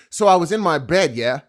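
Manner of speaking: rising "yeah?" at the end; rhetorical tag question. Shown as a demonstration. Trying out British storytelling with yeah, rhetorical tag question. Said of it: "like a rhetorical question".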